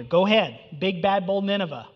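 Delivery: a light sneering dare to the city; mildly mocking the proud city; mocking taunt. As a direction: toss it out as a jeer. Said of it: "this mockery here".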